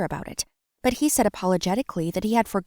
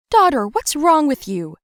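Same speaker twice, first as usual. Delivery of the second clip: alarmed mom; 8 semitones higher, 7 dB louder than usual. Acted. Mom bursts in on tantrum.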